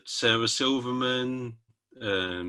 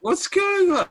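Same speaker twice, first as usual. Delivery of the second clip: laughing; 5 dB louder, slower than usual. Real, not acted. Host laughs at off-screen noise.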